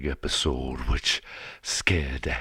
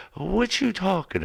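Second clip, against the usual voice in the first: confused rabbit; 4 dB louder than usual. Retold or imitated. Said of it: "the rabbit's like".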